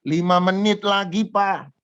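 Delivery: a hint of a child calling back; child's reply. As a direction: imitate a kid stalling Dad. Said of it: "anak kecil kalau sudah disuruh mandi".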